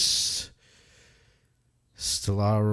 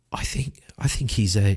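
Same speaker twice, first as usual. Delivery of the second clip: hushed aside to her friend; whisper. Acted. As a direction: whisper so the big man won't hear. Jean whispers to Leda.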